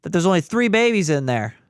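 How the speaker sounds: wife laying down the law, imitated; bossy. Wife on the table ordering the tech, bossy. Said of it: "like a boss, I hear her go".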